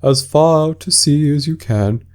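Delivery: shout. Acted. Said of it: "shouted the Griffin".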